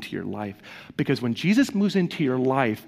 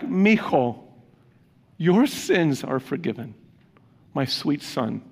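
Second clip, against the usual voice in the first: tender, fatherly; slower than usual. Retold or imitated. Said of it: "It's a term of endearment".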